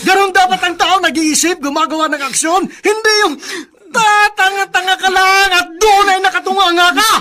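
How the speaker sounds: heated, shouting rebuke; angry scolding. Acted. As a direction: scold him hard for just standing there. Uncle berating nephew. (galit na pagsesermon)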